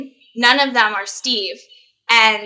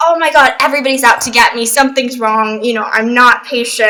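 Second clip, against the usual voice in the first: mock panic; 4 dB louder than usual. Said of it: "and I just go crazy".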